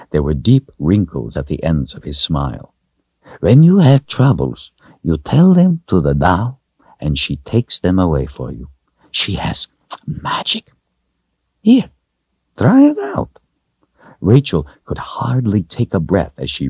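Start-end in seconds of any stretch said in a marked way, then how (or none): 3.4-13.4 put-on lilting storyteller to a child, dropping to hushed; kindly wizard. A narrator's reading. Wizard coaxing the girl to try the doll, kindly. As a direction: explain the magic with big lifts and hushed drops. Wizard explains the doll's magic.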